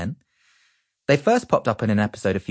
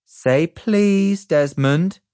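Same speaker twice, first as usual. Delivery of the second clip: correcting; 10 semitones higher, 5 dB louder, much slower than usual. A narrator's reading. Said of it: "I said".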